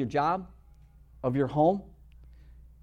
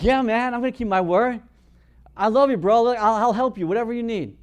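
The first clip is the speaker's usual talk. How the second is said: louder, higher, fervent reassurance; earnest promise; 6 semitones higher, 6 dB louder than usual. Retold or imitated. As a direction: promise him with your whole heart. Pastor reassures crying man.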